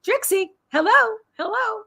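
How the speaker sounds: high, drawn-out calling; calling a pet. Real, not acted. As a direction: sing out for the pet's attention.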